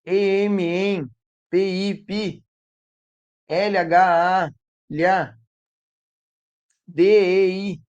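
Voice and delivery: slow letter-by-letter reading with long pauses; laborious spelling out. Acted. Teacher imitating a child reading empilhadeira, laborious spelling. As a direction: spell painstakingly, pausing between syllables. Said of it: "ler empilhadeira dessa forma?".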